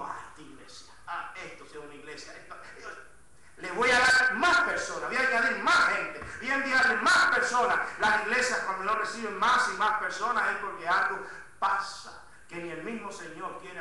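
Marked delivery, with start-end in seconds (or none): 0.0-2.9 the Lord speaking. Retold or imitated. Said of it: "que el Señor dijo". 3.6-12.2 loud, driving sermon delivery, words stretched for weight; full-force preaching. Acted. Pastor urging his congregation, loud full-force preaching. Preacher proclaiming God's promise.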